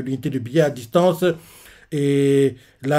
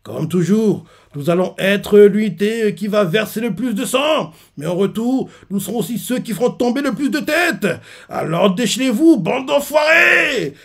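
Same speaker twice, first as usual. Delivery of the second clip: fierce war speech; 6 semitones higher than usual. Retold or imitated. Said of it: "il fait, un speech".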